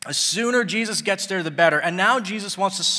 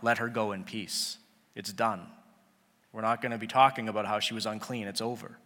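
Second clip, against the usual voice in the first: lower, softer, settling the crowd gently; quiet it down, no more talk; calm reassurance; 7 semitones lower, 5 dB quieter than usual. Acted. Jesus to the crowd, softly closing the matter. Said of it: "he's telling the crowd".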